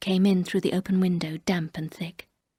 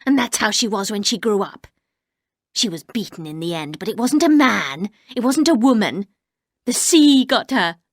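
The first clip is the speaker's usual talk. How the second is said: louder, harsh mock of the dead mistress's story; high harsh voice; 3 semitones higher, 4 dB louder than usual. Housekeeper bitterly telling the narrator about Rebecca, harsh. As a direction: grind it out, bitter and hard. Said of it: "in a high, harsh voice".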